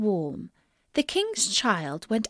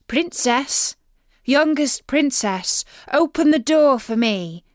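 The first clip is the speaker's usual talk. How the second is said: frog crying out; 5 semitones higher, 4 dB louder than usual. Acted. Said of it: "knocked at the door and cried".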